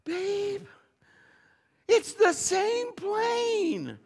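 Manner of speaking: high mock wife's voice, slow and pleading. Wife warning husband about the plane, high and slow. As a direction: squeak it out like a worried wife. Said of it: "She's like".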